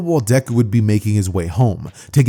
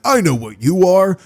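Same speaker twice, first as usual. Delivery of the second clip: higher-pitched teasing voice; teasing call-out; 7 semitones higher than usual. Acted. Random extra calling out Deku, teasing.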